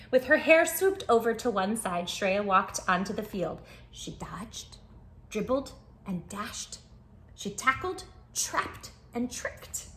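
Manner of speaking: lively storybook narration for little listeners; reading to children. Acted. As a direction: tell it like a bedtime picture book. Reads picture book aloud.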